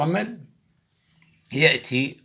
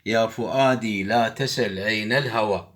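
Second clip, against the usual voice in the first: poem recitation. Shown as a demonstration. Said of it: "عندنا تطبيق هي قصيدة إبراهيم ناجي".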